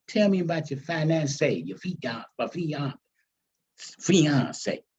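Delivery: stumbling twice on "fian-" before getting out "fiancé"; bungling fiancé. Acted. Grandma asks about the fiancé, stumbling over "fiancé". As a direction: trip over "fiancé", restart it, then land it. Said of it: "Bungles word, fiancé".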